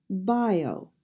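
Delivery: BIO with the weight on BI; "bio" stressed up front, falling off; stress on first syllable. Shown as a demonstration. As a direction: punch the first syllable of "bio", let the second fall away. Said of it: "accent on the first syllable".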